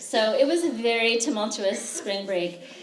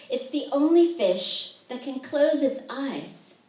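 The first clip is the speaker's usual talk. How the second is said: poem reading; 3 semitones higher than usual. Acted. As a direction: let each image land. Reads the fugu soup poem.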